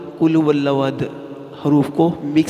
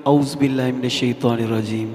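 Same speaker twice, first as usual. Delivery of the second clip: rushed. Shown as a demonstration. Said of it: "جلد بازی میں".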